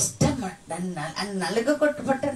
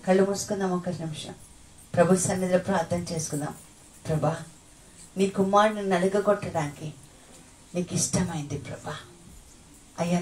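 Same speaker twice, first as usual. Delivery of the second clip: prayer. Real, not acted. Preacher leading the church in prayer, earnest. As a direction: pray to the Lord with feeling.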